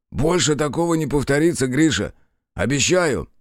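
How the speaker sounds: winded partner swears it won't happen again. A narrator's reading. Winded partner promises eagerly.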